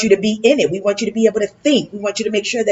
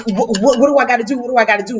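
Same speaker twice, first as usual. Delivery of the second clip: excited people; 4 semitones higher, much faster than usual. Retold or imitated. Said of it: "people like".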